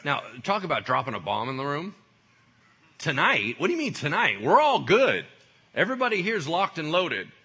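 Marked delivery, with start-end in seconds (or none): 3.0-7.3 loud, high burst of disbelief; indignant protest. Acted. Disciples answer Jesus's bombshell about tonight, in indignant protest. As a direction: protest loudly as an affronted follower.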